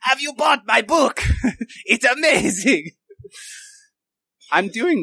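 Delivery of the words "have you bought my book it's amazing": high mock mother impression; badly faked mom voice. Illusion of the mother just going on, high botched impression. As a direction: attempt the mom's voice, pitched up and hammy. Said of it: "I can't do that voice, dude, but he's just going on like".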